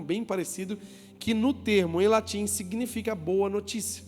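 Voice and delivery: usual speaking voice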